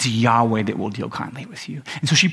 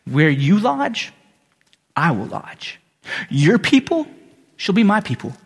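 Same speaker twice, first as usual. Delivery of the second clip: emotional. Real, not acted. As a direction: let the words catch with real emotion. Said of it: "I got a little emotional".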